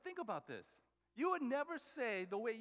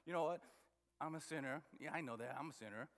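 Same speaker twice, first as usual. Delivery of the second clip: guiltless shrug; 5 semitones lower, faster than usual. Retold or imitated. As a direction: say it with no guilt at all. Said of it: "even the way we say that, you know, it's like there's no guilt".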